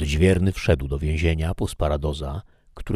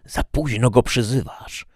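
high, louder devilish cry; shrieking Satan; 7 semitones higher, 5 dB louder than usual. A narrator's reading. Satan mocks the prisoner's late appeal, shrieking. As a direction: shriek it as the devil, raised and forceful. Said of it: "wrzasnął szatan".

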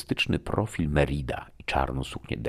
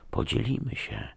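soft, higher, coaxing half-whisper; 7 semitones higher, 5 dB quieter than usual. A narrator's reading. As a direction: tempt them gently, close to the ear. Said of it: "szeptała mi do ucha". (kuszącym półszeptem)

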